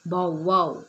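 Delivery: voiced "Bow wow" like a dog's bark; dog bark imitation. Shown as a demonstration. Teacher shows the class the dog's sound with a bark imitation. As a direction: bark it out for the children. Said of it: "What sound the dog makes?".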